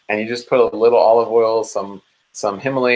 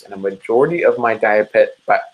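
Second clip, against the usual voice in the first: tripping over the words; excited stumbling start; stuttering; faster than usual. Real, not acted. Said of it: "I'm stuttering now".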